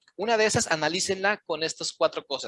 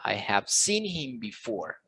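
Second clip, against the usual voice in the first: slow, lower repeat with "seen" raised above "I have" and "him"; stress on content words; 5 semitones lower, 4 dB quieter, slower than usual. Shown as a demonstration. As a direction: linger on "seen", then fall through "before". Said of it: "you need to raise your voice in".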